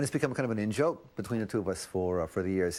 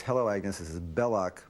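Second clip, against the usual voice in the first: the Billy voice, mildly done. Retold or imitated. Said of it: "because that's my voice".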